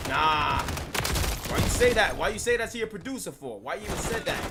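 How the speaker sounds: indignant. Real, not acted. Indignant at the producer's remark.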